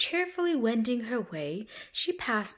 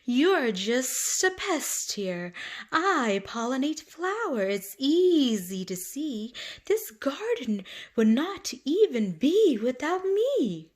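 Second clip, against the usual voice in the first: bumblebee; 5 semitones higher, 4 dB louder than usual. Acted. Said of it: "buzzed the bumblebee".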